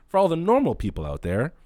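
repeats the phrase through a laugh. Real, not acted. Laughing as he explains to normal viewers. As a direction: laugh while saying it to the normal people.

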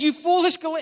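a touch of upset scolding; angry, upset. Retold or imitated. Paul scolding the Galatians, mildly angry. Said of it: "he's, he's angry. He's really upset".

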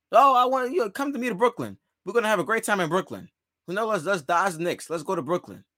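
mock recruiting pitch. Player urges another to come to Brooklyn, mock coaxing. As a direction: lightly act out a star coaxing a teammate along.

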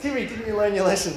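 high-pitched playful telling-off; mock exasperated scolding. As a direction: chide a toddler in disbelief. Relative chiding toddler in story.

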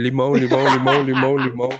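very low, monotone looping call; lemon seller. Retold or imitated. Teased vendor switching to lemons, low droning chant. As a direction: drone it like a street hawker.

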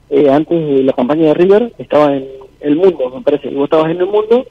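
phone covered with a hand; muffled phone voice. Real, not acted. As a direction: sounds like talking in a bathroom. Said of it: "¿vos estás tapando el teléfono con la mano?".

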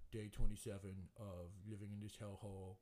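lightly voiced long-suffering dog; a hint of a talking-dog voice; mildly put-on dog diary voice; Asher. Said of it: "Asher's voice is like this".

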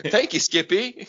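a hint of a pleased ventriloquist; lightly voiced boss thanking his dummy; smug puppet master. Host thanking his puppet, lightly smug. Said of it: "And I'll be like".

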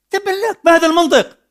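high, loud indignant cry; angry outburst. Real, not acted. Preacher denouncing a politician, loud and angry. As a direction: hurl it at him in disgust.

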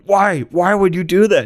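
squeaky high-pitched disbelief; high mock question. The researchers asking him, squeaked high and baffled. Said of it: "they're like".

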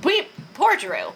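talking while chewing apple; words round a crunchy bite; crunching an apple. Real, not acted. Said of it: "if you hear me crunching, it's because I'm crunching on an apple".

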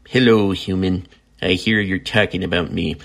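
lightly put-on pet voice, close to his own; Foxy's cat voice. Speaking for the cat he's petting, light cat voice. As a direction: give the cat a voice, just slightly. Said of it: "my cat voice is kind of annoying".

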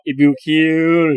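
imitating the catchphrase. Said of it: "มันก็จะพูดอย่างงี้ตลอด".

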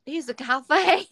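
slow, imitated British child; lightly mocked little-boy British accent. Host quoting the British kid in the video, British accent. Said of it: "In this accent".

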